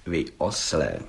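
usual speaking voice

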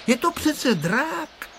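put-on high, decided little girl's tone; firm voice. A narrator's reading. Tereska firmly setting the boys straight. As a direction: settle it with certainty. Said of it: "řekla rozhodným hlasem Tereska".

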